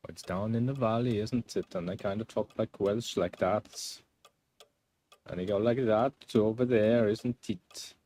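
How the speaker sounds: lilting amateur Welsh, sliding towards Indian; bad Welsh accent. Shown as a demonstration. Streamer demonstrating how valley folk talk, wobbly Welsh accent. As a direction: attempt a Welsh accent that drifts off. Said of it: "Turns into Indian whenever I do Welsh".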